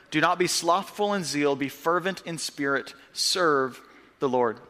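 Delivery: measured, solemn Bible reading; scripture reading. Acted. Pastor reading Romans to the church, solemn and measured.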